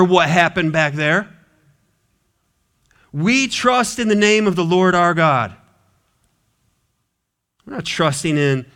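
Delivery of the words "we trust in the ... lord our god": proclaiming creed. Real, not acted. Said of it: "repeated creed".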